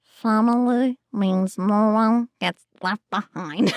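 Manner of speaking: cartoon voice tightening to a strangle; increasingly strangled. Shown as a demonstration. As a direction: let the character voice choke up as you go. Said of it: "It got more and more strangled".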